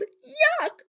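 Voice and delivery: loud, high yell of disgust. A narrator's reading. Mother biting the clay cookie, loud disgusted yell. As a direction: spit the clay out with a shout. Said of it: "And she yelled".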